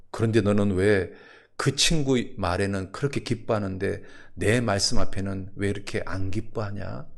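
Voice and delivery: low, restrained reproach as God; God's reproach. Acted. God gently reproaching the pastor.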